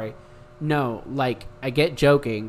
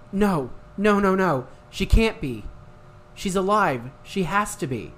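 higher, louder desperate pleading; panicked denial; 3 semitones higher, 5 dB louder than usual. Acted. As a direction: beg reality not to be true. Narrator panics over Faye.

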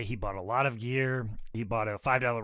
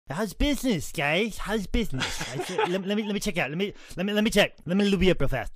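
Ric Flair impression; 4 semitones higher than usual.

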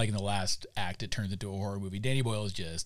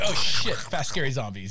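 startled yelp; 4 semitones higher, 5 dB louder than usual. Retold or imitated. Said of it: "you're like".

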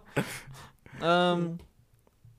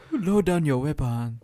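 stilted, hammed-up African accent; mock African accent. Mocking a film star's line, put-on African accent. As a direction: parody the film's African accent. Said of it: "This is how Africans sound".

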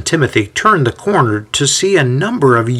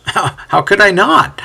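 laughing; 9 semitones higher than usual. A narrator's reading. Timothy amused by the question.

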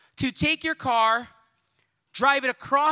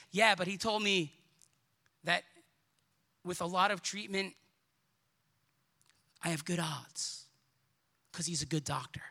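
hushed hopeful patient; 5 semitones lower, 6 dB quieter than usual. Acted. Patient quoted, voice drops away.

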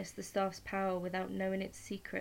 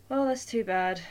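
smirking; 3 semitones higher, 9 dB louder than usual. A narrator's reading. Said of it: "Hermes smirked".

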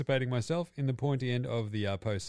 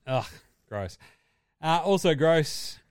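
disgust; 4 semitones higher, 4 dB louder, slower than usual. Real, not acted.

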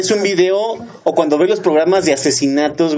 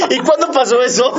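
hammy dub line; 6 semitones higher than usual. Acted. Continuing parody.

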